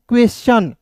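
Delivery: "क्वेश्चन" with sh followed by ch; clearly sounded "ch" in "क्वेश्चन"; correct reading. Shown as a demonstration. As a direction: model "क्वेश्चन" ending in "chan". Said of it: "पढ़ेंगे चन".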